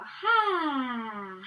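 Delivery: sighed out ha. Shown as a demonstration. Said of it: "And sigh it out".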